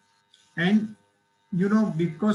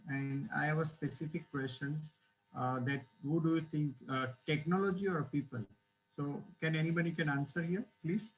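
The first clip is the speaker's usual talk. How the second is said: barely audible; 8 dB quieter than usual. Real, not acted. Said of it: "Your voice is very low".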